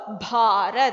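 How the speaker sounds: भारत slow, with a breathy BH and long AA; aspirated BH. Shown as a demonstration. Teacher has children repeat भारत, aspirated BH. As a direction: stretch भारत out, puffing air on भ. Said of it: "भारत नहीं बोलते हैं".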